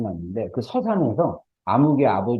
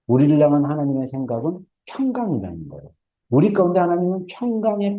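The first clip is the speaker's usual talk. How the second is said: higher-pitched, insistent preacher delivery; emphatic preaching; 6 semitones higher than usual. Real, not acted. Preacher telling congregation God plans peace, emphatic preaching. Preacher driving home the point.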